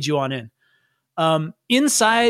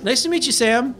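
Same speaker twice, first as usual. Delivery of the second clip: higher-pitched polite greeting; friendly Jorge; 6 semitones higher than usual. Acted. Jorge meets Sam for the first time, friendly. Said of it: "And he goes".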